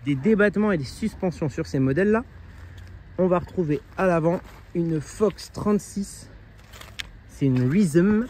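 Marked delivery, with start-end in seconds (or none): 4.7-8.3 Rhythm said with a self-mocking English accent; a clumsy English accent on Rhythm. Shown as a demonstration. Reviewer naming the Fox fork, self-mocking English accent. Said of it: "pardonnez-moi mon superbe accent anglais".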